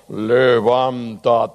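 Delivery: slow, stretched low command; lightly voiced solemn God; deep voice of God. Shown as a demonstration. Pastor demos the deep God voice to the congregation, slow and solemn. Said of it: "Y pongo otra voz".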